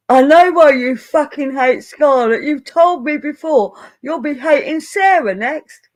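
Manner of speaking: put-on loud, high, botched drunk Australian accent; bad drunk Aussie accent. Friend mocking a drunk Australian in a bad Aussie accent. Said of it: "I can't do an Aussie accent".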